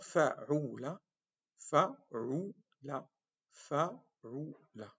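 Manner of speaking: "fa'ula" drawn out with falling end; repeated model. Shown as a demonstration. Teacher repeating the pattern fa'ula. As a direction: say "fa'ula" three times, slowly. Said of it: "un autre ordre vocal".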